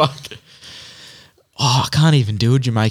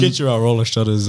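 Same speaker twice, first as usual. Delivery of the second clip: lower, halting presidential voice; Barack Obama; 4 semitones lower than usual. Acted. Host repeating the shutter plug, lower presidential impression. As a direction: lightly imitate a measured American statesman. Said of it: "sounding like Barack Obama".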